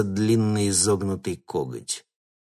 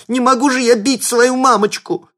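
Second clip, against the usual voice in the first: much higher, louder panicked squeal; 10 dB louder than usual. A narrator's reading. Thug squealing at seeing his mother. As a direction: shriek like a scared kid. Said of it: "взвизгнул он".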